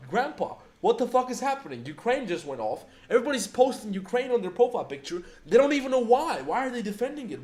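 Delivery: high, incredulous retold rant at the whole internet; exasperated rant. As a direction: fire off indignant questions, voice climbing high. Retold call to grandpa, ranting.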